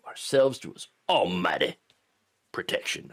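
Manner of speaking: solemn pulpit reading of the statement; preacher mode. Acted. Commentator reading the church statement, slipping into a preacher's cadence. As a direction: intone it like a sermon from the pulpit. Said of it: "I, I get into preacher mode".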